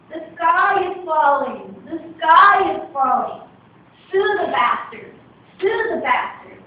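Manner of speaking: alarmed barnyard shouting; panicked shouting. Acted. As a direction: cry it out like a panicking bird mob. Frantic chant of the fleeing birds.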